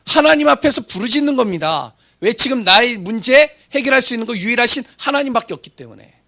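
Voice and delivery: high and loud impassioned preaching; fervent preaching. Acted. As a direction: drive it home from the pulpit. Preaching at full force.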